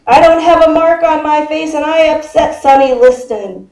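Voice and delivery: a hint of a boastful champion's voice; Muhammad Ali. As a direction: proclaim it like a champion, slightly hammed-up. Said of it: "You have to say it in that voice".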